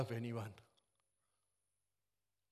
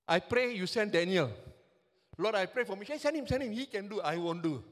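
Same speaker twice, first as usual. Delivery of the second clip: loud mock prayer; 2 semitones higher, 6 dB louder than usual. Mock prayer of reluctant Christians.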